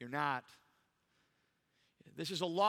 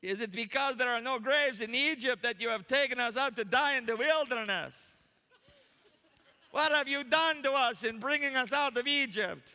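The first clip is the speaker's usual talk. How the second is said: hammed-up Jewish accent, high and loud; loud, indignant mock Jewish accent; best Jewish accent; 7 semitones higher, 7 dB louder than usual. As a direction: complain theatrically in a put-on Jewish accent. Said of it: "with my best Jewish accent".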